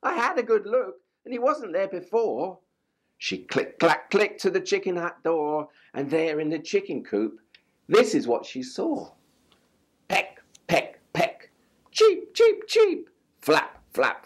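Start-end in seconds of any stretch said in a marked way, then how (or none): 0.0-2.6 doubtful hen. A narrator's reading. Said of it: "clucked Hen". 10.1-13.1 pecking then very high cheeps; high chick cheeps; chick noises. A narrator's reading.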